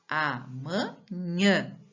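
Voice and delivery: Amanhã slowly as A, MA, NHÃ; syllable breakdown. Shown as a demonstration. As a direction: sound out Amanhã piece by piece. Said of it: "Eu falo ela mais forte".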